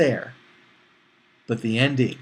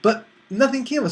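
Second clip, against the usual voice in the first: laughing; 8 semitones higher, faster than usual. Real, not acted. Laughing at a confusing film.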